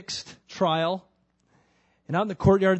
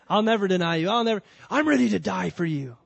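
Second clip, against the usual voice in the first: insistent vow; 3 semitones higher, 5 dB louder than usual. Acted. Peter repeats his boast.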